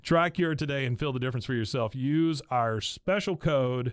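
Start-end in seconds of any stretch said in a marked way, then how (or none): 1.9-3.9 slow booming announcer drawl; foghorn. Acted. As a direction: stretch it like a foghorn. Drawn-out ad read.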